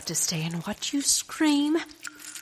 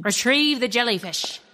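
loud, higher commanding order; villain command; 4 semitones higher, 5 dB louder than usual. Acted. Pirate Penny ordering goons to fetch jellyfish, loud. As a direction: bark the order to your goons.

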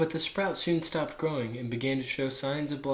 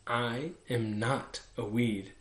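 sweetly; slower than usual. Acted. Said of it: "the flower sweetly replied".

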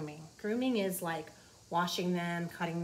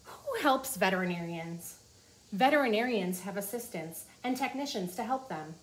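put-on reading to children. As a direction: clear storybook read-aloud. Reading the book aloud.

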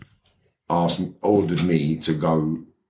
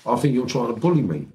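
acted complaint; 6 semitones higher than usual. Other man in acted quarrel.

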